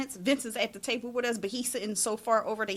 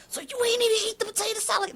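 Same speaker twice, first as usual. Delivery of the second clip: mock disbelief; 12 semitones higher, 5 dB louder, faster than usual. Friend asks incredulously.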